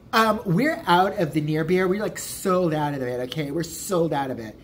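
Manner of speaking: mildly mocking imitation of a rude server; snippy bartender. Bartender refusing a customer a near beer, snippy. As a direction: drag the first words out, curt and put-upon. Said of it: "yelled at him".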